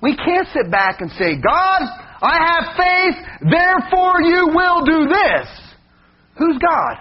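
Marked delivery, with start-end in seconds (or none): 1.3-5.5 pitched-up mock of a demanding believer; demanding prayer. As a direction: ham up a bossy prayer, higher.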